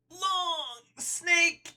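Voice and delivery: snake voice, hissing out each s; drawn-out s like a snake. Acted. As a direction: stretch every s like a snake. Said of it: "snake voice is me really enunciating my S sounds".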